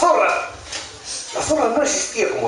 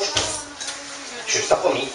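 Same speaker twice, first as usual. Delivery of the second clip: high, soft, drawn-out croon to oneself; hushed high-pitched relish; sly animal aside; 3 semitones higher, 6 dB quieter, much slower than usual. Acted. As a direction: stretch it out slowly in a quiet high voice. Animal's gleeful aside on approaching donkey.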